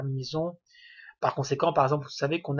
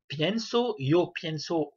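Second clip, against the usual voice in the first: pienso, stressed on the stem's E; accent sur le radical; much slower than usual. Shown as a demonstration. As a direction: say pienso with weight on the first syllable, PIEN-so. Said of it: "l'accent tonique sera sur ... du radical". (pienso, accent tonique sur le E du radical)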